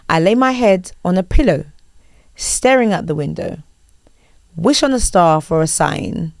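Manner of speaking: spoken lyrics, line by line; reading out lyrics. Shown as a demonstration. Host repeating the quiz lyrics, read not sung. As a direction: recite the song as prose, no tune. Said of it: "I will read out the lyrics".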